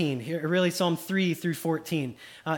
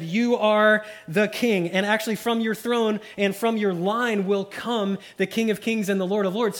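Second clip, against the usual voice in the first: booming proclamation, louder and higher; God proclaiming; 3 semitones higher, 4 dB louder than usual. Acted. God crowning David, loud proclamation. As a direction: announce it like God crowning a king. God's words to David voiced.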